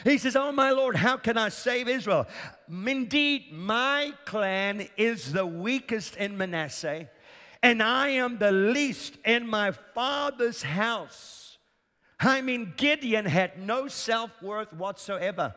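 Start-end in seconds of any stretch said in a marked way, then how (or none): 0.3-11.6 whining. Retold or imitated. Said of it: "he carries on whining".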